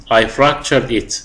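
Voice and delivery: fractured said slowly and clearly, every syllable given; careful dictation pace; slow model reading. Shown as a demonstration. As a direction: read I fractured it slowly for the class. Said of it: "تحفظ كلمة fractured".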